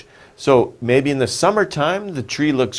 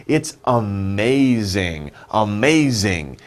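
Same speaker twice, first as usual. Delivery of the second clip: slow teaching; 3 semitones lower, slower than usual. Shown as a demonstration. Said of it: "What can we say?".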